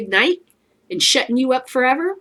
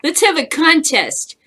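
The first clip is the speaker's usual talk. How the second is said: louder, higher, cracking with laughter; laughing challenge; 4 semitones higher, 6 dB louder than usual. Acted. Time traveler dares Vikings to a contest, laughing. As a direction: push it out through giggles. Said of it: "challenge to Vikings".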